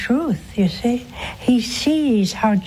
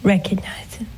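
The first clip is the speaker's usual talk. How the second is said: whisper; 2 semitones lower than usual. Acted. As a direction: whisper it like a private plea. Quiet repeated call to recognize.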